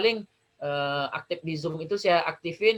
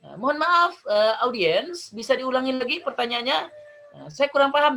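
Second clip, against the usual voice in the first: polite request to repeat; 7 semitones higher than usual. Shown as a demonstration. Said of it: "klarifikasi pertanyaan jika perlu".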